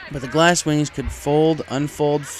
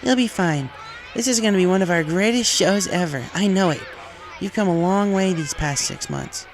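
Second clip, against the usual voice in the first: higher, louder confident captain; a coach rallying her star; Spitfire's voice; 7 semitones higher, 3 dB louder than usual. A narrator's reading.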